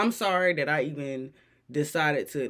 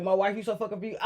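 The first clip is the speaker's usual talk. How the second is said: mock sweet talk; 2 semitones higher, much faster than usual. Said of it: "call it saying".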